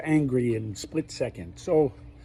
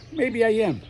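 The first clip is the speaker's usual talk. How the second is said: a lightly voiced, higher inner voice answering him; a hint of a second personality chiming in; another voice in his head; 9 semitones higher, 5 dB louder than usual. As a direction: pop in as a different voice from inside his head. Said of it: "I got four voices in my head".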